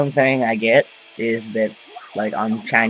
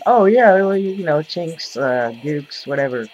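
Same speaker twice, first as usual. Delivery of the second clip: high, loud sneering mimic of people who say it; jeering take-off of the usual taunt; mocking imitation; 5 semitones higher, 4 dB louder than usual. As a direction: parrot them with a mocking lilt. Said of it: "everyone always says".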